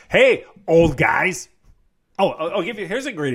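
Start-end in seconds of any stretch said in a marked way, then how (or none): 0.1-1.5 put-on slow, louder, drawn-out "Hey, old guys."; mock-polite greeting. Shown as a demonstration. Fixing the wording for a touchy audience, slow and mock-polite. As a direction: greet them with exaggerated courtesy. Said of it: "I gotta say the right".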